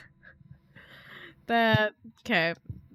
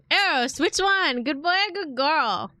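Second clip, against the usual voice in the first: pet talk; 6 semitones higher, 6 dB louder than usual. Real, not acted. Baby-talking to her pet.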